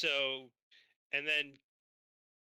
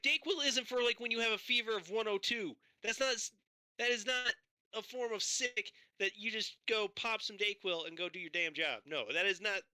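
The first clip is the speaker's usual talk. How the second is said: retold angry rant; 5 semitones higher than usual. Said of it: "I'm like".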